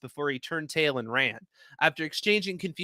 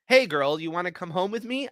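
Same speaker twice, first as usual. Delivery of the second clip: sweetest voice; 4 semitones higher than usual. Acted. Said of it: "I asked in my sweetest voice".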